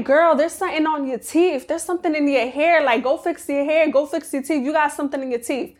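a hint of a catty friend showing you up in front of your guy; mocking nosy friend. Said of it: "They be like".

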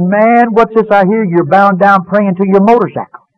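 high-pitched, animated disbelief; incredulous brother. Retold or imitated. Brother on the phone quizzing Jim, incredulous. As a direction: pitch it up, astonished at the news.

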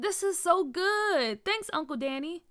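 delighted. A narrator's reading. Kid thanking Uncle Danny for juice, delighted. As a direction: savour it, loud and pleased.

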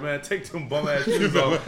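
slow, laughing trash talk. Retold or imitated. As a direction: drawl it out like a jab. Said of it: "Jordan was shit talking".

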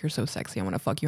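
hushed imitation of a creep's whisper; quietly quoted come-on; retold whisper. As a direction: drop low and soft, imitating words murmured in an ear. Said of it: "he started whispering shit in my ear".

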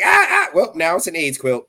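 Quagmire voice. Retold or imitated. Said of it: "and he was like".

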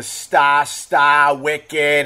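imitated Boston slang; mock Boston with dropped r's; put-on Boston vowels; Boston accent. Shown as a demonstration. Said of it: "Boston does the".

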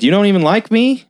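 high, rising imitated reproach; mock hurt question. Pearl to the man backing away, mock hurt. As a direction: climb in pitch, playing wounded. Voicing Pearl feeling rejected.

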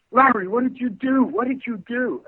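high-pitched retold panic; frightened, crazy. Friend runs into the hallway after the audition, imitated frantic alarm. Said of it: "frightened or crazy".

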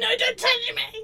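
high, loud mock child's shriek; hammed-up howl of protest. Imitating an upset child to a friend, high hammed-up howl. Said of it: "she's howling at the top of her voice".

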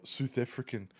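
badly faked South African accent on "South African"; poor South African accent. Shown as a demonstration. Showing how flat it is, poor South African accent. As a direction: attempt "South African" with tightened South African vowels. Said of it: "that was a very poor attempt".

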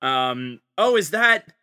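high, put-on casual surprise; hammed-up surprise. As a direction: act like you just noticed it. Acted basement scenario, fake surprise.

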